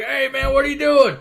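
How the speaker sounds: high, loud mock challenge; guards yelling. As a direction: bark it like a surprised guard. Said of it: "they're like".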